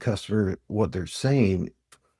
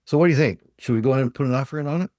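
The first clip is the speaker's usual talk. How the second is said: eager salesman; 5 semitones higher, much faster than usual. Retold or imitated. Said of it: "and he says".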